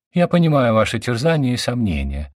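dull, droning lecturer voice; boring lecturer tone. A narrator's reading. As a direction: drone on like a tedious professor. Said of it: "всё тем же тоном занудного лектора".

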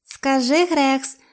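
high creature echo; саламандра повторює. A narrator's reading. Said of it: "повторила Саламандра". (високий голос саламандри-папуги)

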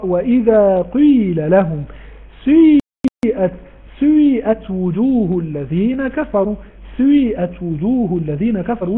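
قيل and سيئت with the first letter rounded and broken, slow; ishmam recitation. Shown as a demonstration. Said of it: "فيضمون القاف مع كسرتها فتقرأ".

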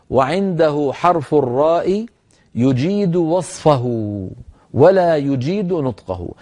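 deliberate, drawn-out formal wording; slow dictation. Shown as a demonstration. Teacher giving the certificate wording for ra, slowly dictated. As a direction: read out the certificate clause slowly, phrase by phrase. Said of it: "اسمعوا العبارة واكتبوها".

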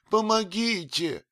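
помогите shrieked very high and loud; scream for help. A narrator's reading. Old nurse screaming помогите at the stranger. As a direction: shriek помогите at full force. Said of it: "закричала от страха".

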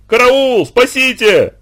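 very high, loud panicked scream; desperate cry for help. A narrator's reading. Boy alone at the hut screaming in terror. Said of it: "отчаянный крик Лёшки".

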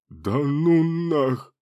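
put-on slow, drawn-out, high cry of childish hurt; childish offended shout. A narrator's reading. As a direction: wail it like a wronged kid. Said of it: "С детской обидой в голосе закричал Гио".

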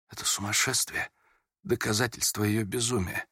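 trembling lips. A narrator's reading. Prince to Aglaya about the letters, hushed and trembling. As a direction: barely voice it, holding back emotion. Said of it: "и губы его задрожали".

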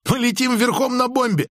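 высокий возбуждённый возглас, не громкий; объяви об опасности взвинченно; взвинченное восклицание. A narrator's reading. Пилот с усмешкой сообщает об опасности. (взвинченно)

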